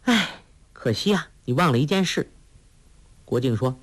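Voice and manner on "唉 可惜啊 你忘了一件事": a higher, sighing note of regret. A narrator's reading. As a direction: sigh it out, a little sorry for him. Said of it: "黄蓉叹道".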